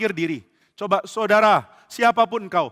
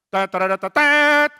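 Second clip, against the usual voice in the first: mock fanfare; 8 semitones higher, 5 dB louder, much slower than usual. Messenger arrives at the palace, mock trumpet fanfare. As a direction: trumpet call, last note high and loud.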